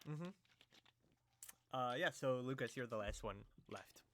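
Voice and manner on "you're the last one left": hushed aside. Acted. GM's dramatic hushed aside.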